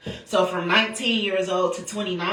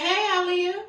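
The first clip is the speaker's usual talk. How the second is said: grandma's voice; 12 semitones higher than usual. Retold or imitated. Grandma waking from coma greets her.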